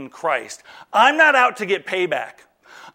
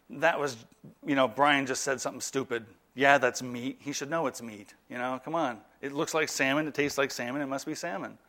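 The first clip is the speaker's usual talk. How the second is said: low, soft, understated muttering to herself; forgiving wife's aside; 5 semitones lower, 8 dB quieter than usual. Acted. Wife excusing husband's stupid remark, low and soft. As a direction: quietly let it go, voice dropped low. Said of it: "She loves me enough to be able to say".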